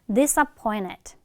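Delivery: "disappointed" as disa-POI-ned, slowly modelled; t assimilated into n. Shown as a demonstration. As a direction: drop the t after n in "disappointed". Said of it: "앞에 는 발음에".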